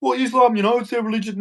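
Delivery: lightly mocked excuse, fading at the end; mocking excuse. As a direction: parody the excuse-maker lightly. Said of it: "You cannot say".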